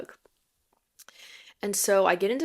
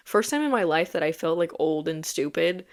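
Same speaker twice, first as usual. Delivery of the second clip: ordinary talk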